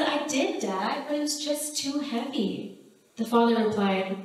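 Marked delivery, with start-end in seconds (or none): 0.0-2.8 lightly voiced small boy, pitched higher; a hint of a confused four-year-old pleading; mild, higher child voice insisting he tried; child's voice. Boy answers his father.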